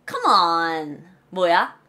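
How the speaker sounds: low, stretched-out scoff; skeptical, dragged "come on"; disbelieving come on. Shown as a demonstration. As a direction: drawl it like you don't buy it. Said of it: "무슨 느낌인지 알아요?".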